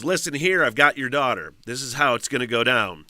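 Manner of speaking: loud, lightly voiced kidnapper threat; retold kidnapper. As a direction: lay down the terms loudly, as a retold threat. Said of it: "He says".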